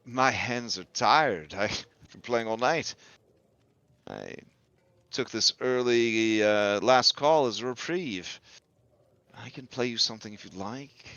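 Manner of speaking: lightly voiced tired musician; Bertavio. Musician answering a tease after playing all night, lightly voiced. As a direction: explain the break, in character. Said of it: "Uh, and he says".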